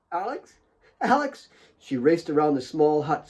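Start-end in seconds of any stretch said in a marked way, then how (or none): 0.1-1.5 calling out. A narrator's reading. Kate searching the hut.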